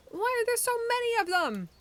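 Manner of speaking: high, loud bewildered cry; alarmed shout. A narrator's reading. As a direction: panic at the crowd. Robot shocked in the woods.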